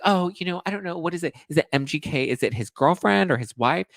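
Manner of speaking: high-pitched fake-casual wondering; mock coy woman. Contestant hinting at her celebrity lookalike, mock coy.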